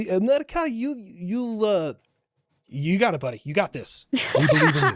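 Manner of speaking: put-on a light Ukrainian accent, stretching out America with a rise; lightly put-on Ukrainian accent, coaxing and encouraging; Zelensky accent. Gamer teasing America in a light Zelensky Ukrainian accent. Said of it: "I'll start trying to do my best Zelensky accent".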